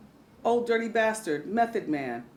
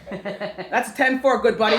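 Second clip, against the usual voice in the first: CB radio trucker. Pretend. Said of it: "talk to him ... on the C B".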